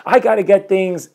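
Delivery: fast, hushed, flustered rattling off of excuses; rushed excuses. Retold or imitated. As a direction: gabble your excuses like a stressed-out man. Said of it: "And I'm like".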